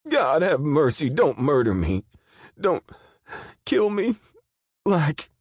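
high, loud pleading, voice cracking; terrified begging. Acted. Guard begging the killer not to kill him. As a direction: plead for his life on your knees. Daggett begging on his knees.

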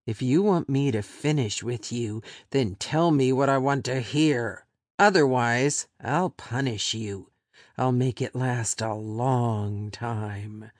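a hint of a cold threat, slowing at the end; lightly voiced captor threatening punishment.

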